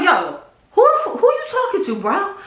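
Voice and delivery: high, laughing retold yell; a laughing retelling of a yell; mock heated yell. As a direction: throw the challenge at him half laughing. Retold heated confrontation with uncle.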